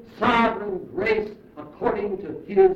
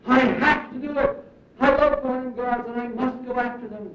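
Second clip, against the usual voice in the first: higher-pitched mock insistence; mock protest, pitched up at the start; acted insistence; 4 semitones higher than usual. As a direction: play a people insisting they have no choice. Acting out the people's defiant excuse.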